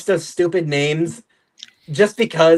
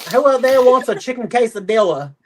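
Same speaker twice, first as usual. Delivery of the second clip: higher-pitched mock country accent; 5 semitones higher than usual. Shown as a demonstration. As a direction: call it out in a put-on country accent. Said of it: "You want the good country accent?".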